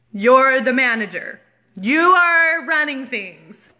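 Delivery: slow, emphatic disbelief; incredulous. Retold or imitated. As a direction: spell it out as if you can't believe it. Disbelief at teenage manager.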